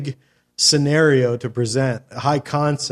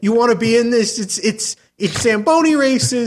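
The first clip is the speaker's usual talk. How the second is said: higher, pleading hustle; eager pitch; 6 semitones higher, faster than usual. Acted. Host begging people to be in his movie, eager pitch. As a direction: talk them into it, line after line. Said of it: "run around town with a script in your hand going".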